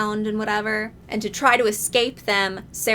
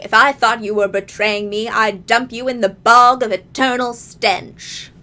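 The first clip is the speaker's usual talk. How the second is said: Goblin King voice; 6 dB louder than usual. Retold or imitated. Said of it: "my Goblin King voice".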